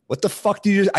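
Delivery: high, loud indignant outburst; retold anger. Retelling a clash over a stolen cab, angry challenge. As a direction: act out getting riled up. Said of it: "I got, like, angry".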